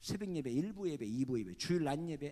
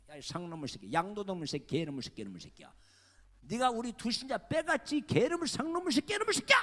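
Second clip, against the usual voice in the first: furious cursing; 2 semitones higher, 8 dB louder than usual. Retold or imitated. Rival pastor screaming insults down the phone, building to a furious shout. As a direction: rant until you are screaming.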